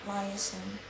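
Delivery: "liaison" stressed on its first syllable; American first-syllable stress. Shown as a demonstration. Student shows American liaison, stressed on the first syllable. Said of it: "American puts stress in the first syllable".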